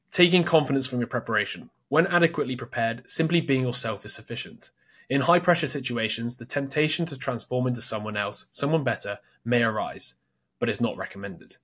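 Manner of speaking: measured reading from a book; reading aloud. Acted. Host reading book advice to co-host, measured read-aloud. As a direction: read the passage out in full sentences.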